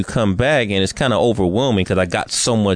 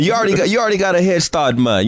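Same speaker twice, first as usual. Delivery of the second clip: lightly put-on Jamaican lilt, higher at first; Jamaican accent; 6 semitones higher, faster than usual. Telling co-host about island culture, light Jamaican accent. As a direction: slip playfully into a Jamaican accent. Mimics Jamaican talk after "Yeah, man.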